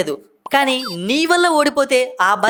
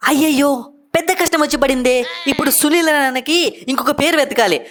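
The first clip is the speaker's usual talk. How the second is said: mock lament; 4 semitones higher than usual. Teasing Narine's name vow.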